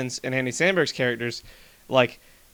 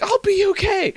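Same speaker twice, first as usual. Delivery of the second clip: mock brave reassurance; 4 dB louder than usual. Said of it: "He's like".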